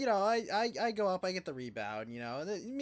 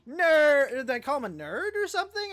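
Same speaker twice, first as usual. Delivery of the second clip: higher and louder, puzzled "Nerd?"; baffled question; 9 semitones higher, 9 dB louder than usual. Retold or imitated. Kid puzzling at the principal, baffled and loud. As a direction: blurt it out like you truly don't get it.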